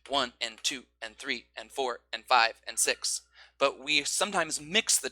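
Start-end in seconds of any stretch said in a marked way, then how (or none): 0.1-3.2 "one" "two" strong, each "and" light; strong-weak gallop; horse-riding rhythm. Shown as a demonstration. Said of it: "horse riding rhythm".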